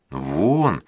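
ordinary delivery, nothing marked

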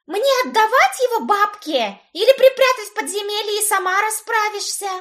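high demanding voice. A narrator's reading. Brit demanding what to do with him, high. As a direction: demand instructions, insistent. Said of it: "Потребовала она".

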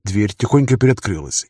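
usual speaking voice

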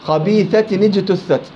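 slow خبيثة نجتثت with the tanween voiced as nun before نجتثت; slow recitation example; moving nun of tanween. Shown as a demonstration. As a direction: read خبيثة نجتثت with a clear ni. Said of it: "ليش النون هنا ليست ساكنة".

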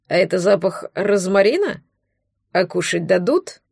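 put-on drunk. A narrator's reading. Drunk elf asks about food.

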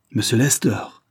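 mildly scoffing; understated jeer; mocking. A narrator's reading. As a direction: repeat the name with a touch of mockery. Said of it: "fit-il d'un air railleur".

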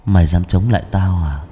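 low menacing voice from beyond; gloomy otherworldly voice. Acted. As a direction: speak low like a possessed child. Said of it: "giọng âm u".

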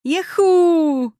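high, loud whoop of joy; joyful shout. A narrator's reading. Vovka hears he'll be a father, joyful shout. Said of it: "закричал Вовка".

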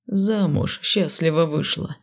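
slow, displeased grumble; grumbling. Acted. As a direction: grumble it grudgingly. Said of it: "пробурчал недовольно".

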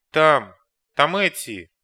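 loud panicked yelp; frightened shriek. A narrator's reading. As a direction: shriek in fear. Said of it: "заверещал Глеб". (испуганный визг)

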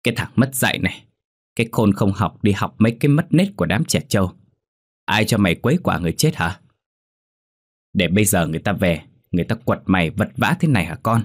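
a hint of a furious mother; scolding mother. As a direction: tear into the stupid son. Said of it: "chửi bới".

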